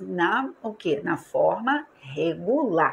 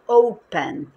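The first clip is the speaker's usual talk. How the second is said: "open" with a strong O, light second syllable; stress on first syllable; 8 dB louder than usual. Shown as a demonstration. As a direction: say "open" as O-pen. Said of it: "a sílaba forte não é o pen".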